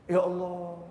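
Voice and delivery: soft, humbled murmur to God; moved, tearful gratitude. Acted. Preacher remembering God's kindness, softly moved prayer. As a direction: pray softly as if close to tears. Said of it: "bisa nangis saya".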